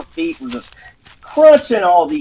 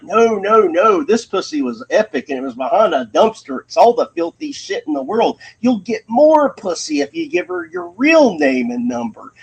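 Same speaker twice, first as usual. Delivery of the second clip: higher, pushy tempter voice; devil on the shoulder; 6 semitones higher than usual. Retold or imitated. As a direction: egg him on like a little devil. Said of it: "the bad angel appeared".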